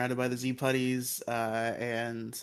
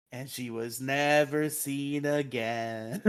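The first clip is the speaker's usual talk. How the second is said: mock storyteller; slower than usual. Mock-dramatic storyteller ending to recap.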